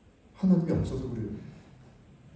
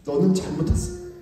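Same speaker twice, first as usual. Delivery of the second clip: much higher, bossy scolding; commanding accusation; 11 semitones higher than usual. Retold or imitated. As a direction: play the master passing judgment. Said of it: "주인이 돼서 커맨딩 합니다".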